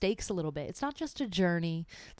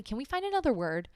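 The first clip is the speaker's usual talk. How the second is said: exasperated plea; 7 semitones higher, 3 dB louder than usual. Real, not acted.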